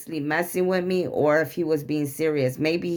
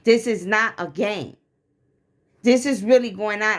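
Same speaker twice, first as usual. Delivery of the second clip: retold anger, pitch raised and emphatic; getting mad; 3 semitones higher than usual. Wife warning husband this is no game, getting mad. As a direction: lay down a warning, lightly re-enacting the anger. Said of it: "he knew I was getting mad".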